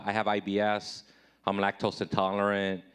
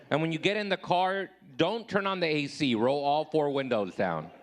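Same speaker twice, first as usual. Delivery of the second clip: indignant lecture; 4 semitones higher than usual. Retold or imitated. Lecturing girlfriend on etiquette.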